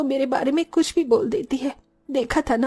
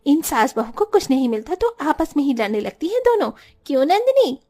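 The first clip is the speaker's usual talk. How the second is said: calling out. Acted. Calling out to neighbours.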